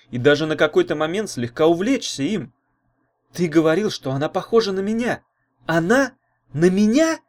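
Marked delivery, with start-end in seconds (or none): 3.3-7.2 higher, offended; indignant outburst. A narrator's reading. Girl rounds on the boy, indignant and higher. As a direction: pounce on him, indignant. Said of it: "накинулась она на Урга".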